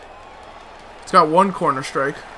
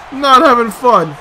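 slow, louder grumble; sarcastic complaint; 4 semitones higher, 4 dB louder than usual. Real, not acted. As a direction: drag it out, fed up.

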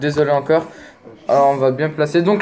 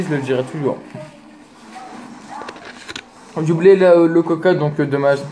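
chewing while speaking; talking between bites; mouth full of fries; 4 dB quieter than usual. Real, not acted. Seen 0: eats fries before and again mid-phrase, chewing while talking.

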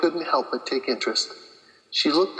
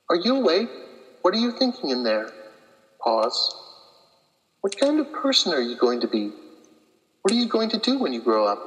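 lightly voiced Maddie cooing to the baby; 2 semitones higher than usual. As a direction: gently coo at the belly, a mild doting mother. Maddie talks to baby in belly.

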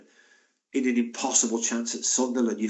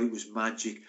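whispered "it was magic"; reliving the magic first day, whispered; awed whisper; 2 semitones lower, 5 dB quieter than usual. Retold or imitated. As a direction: breathe it out in wonder.

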